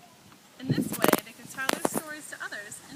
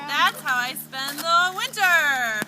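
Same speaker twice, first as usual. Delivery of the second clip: turtle voice; 7 dB louder, slower than usual. Acted. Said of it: "The turtle quickly replied".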